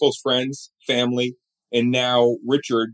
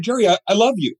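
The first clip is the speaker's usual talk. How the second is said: much higher, faltering declaration; nervous fan; 8 semitones higher, faster than usual. Retold or imitated. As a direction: stammer it out starstruck. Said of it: "I was so nervous".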